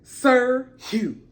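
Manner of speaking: rooting for him; mock cheer. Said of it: "I was like".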